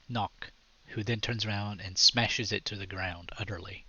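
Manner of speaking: dramatic scene-setting narration; game master describing the scene; story narration. A narrator's reading.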